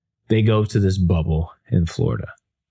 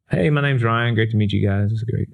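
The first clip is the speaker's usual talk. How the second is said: higher-pitched, acted cheery hello; upbeat greeting; 4 semitones higher than usual. Speaker greeting two unknown players on Zoom, upbeat. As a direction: re-enact a bright introduction.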